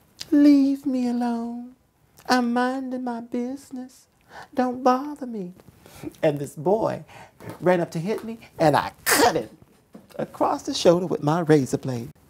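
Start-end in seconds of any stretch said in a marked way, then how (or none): 0.3-5.5 sugary, sweetest little voice, high and slow. Retelling what the speaker always said to those lining up to beat them up, sweetest little voice. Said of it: "I would always say in the sweetest little voice".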